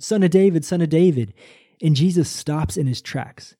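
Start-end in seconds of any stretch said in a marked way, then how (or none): 0.0-1.3 raised, higher desperate call of "Son of David"; crying out for mercy. Retold or imitated. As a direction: call out across a crowd, begging to be heard. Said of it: "And he continues to cry out".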